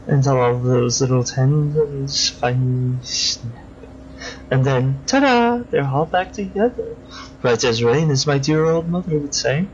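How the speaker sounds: lightly voiced creepy killer, silky and mocking; creepy villain. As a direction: purr over the victim like a polite psychopath. Crosscut gleefully describes cutting.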